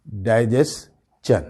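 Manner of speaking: "ڈائجیسچن" slowly, split before "chun"; chun ending. Shown as a demonstration. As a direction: make the ending of "ڈائجیسچن" CH, not SH. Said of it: "چن ہوگا یہ". ("ڈائجیسچن" میں شن نہیں، چن)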